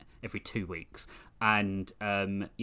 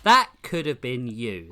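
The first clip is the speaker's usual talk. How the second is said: louder, pointed tease; teasing call-out; 6 dB louder than usual. Acted. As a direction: call them out playfully.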